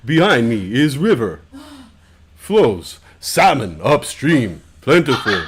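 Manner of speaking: slow stereotype Native American speech, half laughing; put-on Native American accent, slow and stilted; mock Native American accent. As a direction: ham up a movie-Indian voice. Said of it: "We don't all talk like that".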